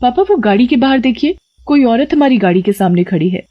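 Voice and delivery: put-on high girlish call; a daughter urgently stopping the car; young girl. Daughter telling her father to stop the car, high.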